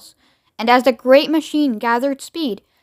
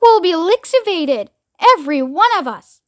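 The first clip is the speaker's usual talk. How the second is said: higher-pitched mild wail; dismayed cry; 6 semitones higher, 3 dB louder than usual. A narrator's reading. Grandma Georgina predicting doom for everyone, dismayed cry. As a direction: lament it with mild dread. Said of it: "cried Grandma Georgina".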